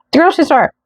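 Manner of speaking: high-pitched, mock-baffled disbelief; incredulous echo. Storyteller doubting arrest at grocery store, acted incredulity. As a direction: repeat it in high, incredulous amazement.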